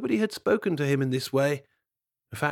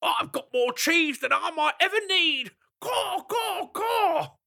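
high, boastful raven voice crowing over his cheese. Acted. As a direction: gloat like a greedy bird from a treetop.

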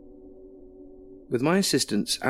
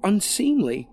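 unhinged woman. A narrator's reading. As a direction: rave like a possessed lover. Alison raving with knife.

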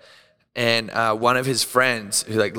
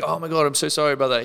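quick, higher mock apology; effusive apology; 4 semitones higher, faster than usual. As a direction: imitate strangers apologising in a rush. Retold strangers apologising.

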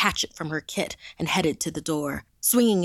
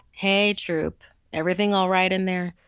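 calling out; 3 semitones higher, 6 dB louder than usual. Acted. Counselor calls into walkie.

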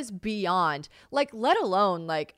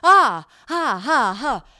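loud, much higher strained laughing gasps; pained yelping laugh; 6 semitones higher, 12 dB louder, much slower than usual. Retold or imitated. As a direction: laugh through sharp pain. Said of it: "I was like".

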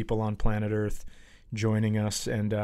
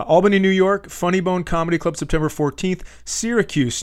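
"Albany, New York" said higher and louder, standing upright; full voice again; 4 semitones higher, 4 dB louder than usual. Real, not acted. Comedian rereads the tour date upright, louder and higher. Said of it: "part of my body is crushing my lungs".

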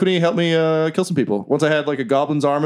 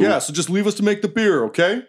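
a higher, pleading dwarf worker; 5 semitones higher than usual. Acted. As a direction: beg the intruders to leave you be.

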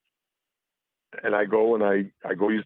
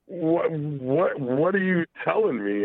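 incredulous disbelief; 5 semitones higher, slower than usual. Retold or imitated. Disbelief at her wanting again.

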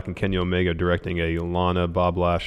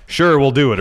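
quoting Saint; 6 semitones higher, 8 dB louder than usual. Retold or imitated. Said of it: "And then Saint goes".

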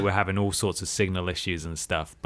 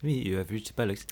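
softer French phone greeting; mock French accent; 7 dB quieter than usual. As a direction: answer quietly as a silly French operator. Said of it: "in a French accent".

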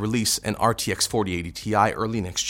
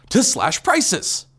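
slow dramatic; 9 semitones higher, much slower than usual. Acted. Hammed-up knife slashing joke.

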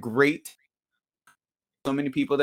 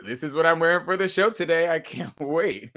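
excited; 5 semitones higher than usual. Retold or imitated. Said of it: "I was like".

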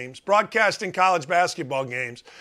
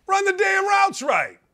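mock Rodgers shout; 11 semitones higher than usual. Rodgers yelling at receivers, higher shouted order. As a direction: bark it like a fed-up quarterback. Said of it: "So Aaron Rodgers says".

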